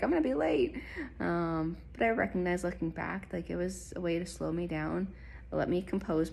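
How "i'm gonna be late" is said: higher, louder mock exasperation; a hint of retold annoyance; annoyed. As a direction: groan about being late, half-joking. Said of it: "I was so annoyed 'cause I'm like".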